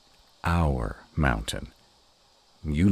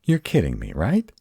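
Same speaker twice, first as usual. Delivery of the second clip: disbelief; 5 semitones higher, 5 dB louder than usual. Acted. Partner denies web.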